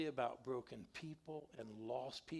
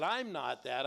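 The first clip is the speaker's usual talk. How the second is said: loud, firm retort; loud defiant retelling; retold angry retort; 7 dB louder than usual. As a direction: push back loudly at the boss. Confronting Conley at his desk.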